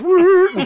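high, loud rising-and-falling "woo"; whoosh noise. Acted. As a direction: imitate a beam zipping back. Imitates light bouncing back.

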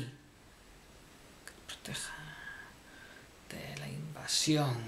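soft hushed whisper, slow; mock-dramatic whisper. Comic narrator laments that nobody protects him, whispered. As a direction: whisper it like a tragic confession.

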